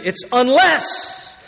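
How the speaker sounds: "unless" drawn out slowly and leaned on; slow, weighty "It's unless"; stress on unless. Shown as a demonstration. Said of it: "Here's the exception".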